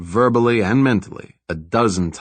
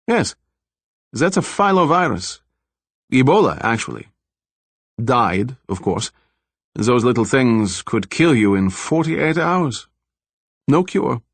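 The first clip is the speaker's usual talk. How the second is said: lightly voiced scientist Zollner; 2 semitones higher than usual. The scientist coolly explaining the virus to the detective, lightly voiced. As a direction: lightly lift the pitch for the doctor, measured and matter-of-fact.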